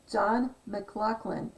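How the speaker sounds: "McLaughlin" the Scottish way, with no F sound; "McLaughlin" said as "mic-LOCK-lin"; Scottish pronunciation. Shown as a demonstration. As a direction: say "McLaughlin" with a k-like middle instead of an F. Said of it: "when you say it like that, it's M A C".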